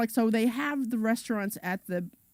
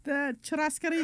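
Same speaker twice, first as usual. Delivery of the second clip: put-on Argentine accent on churrascaria; hammed-up Argentine accent, pitched up; 7 semitones higher than usual. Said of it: "Do it again".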